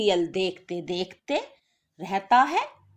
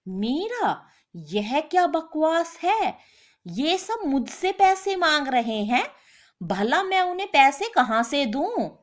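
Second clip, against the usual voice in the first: higher, panicky protest; a cornered husband pleading; husband panicking over creditors at the door; flustered husband; 6 semitones higher than usual. Acted.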